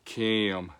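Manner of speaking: Kim pulled slowly into two syllables, Georgia style; slow Georgia drawl on Kim; Georgia accent. Shown as a demonstration. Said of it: "You don't call 'em".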